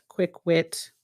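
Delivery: usual speaking voice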